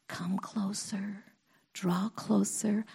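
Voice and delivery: hushed, slow call to come near; tender whisper. Retold or imitated. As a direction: draw them in gently. Voicing God's invitation.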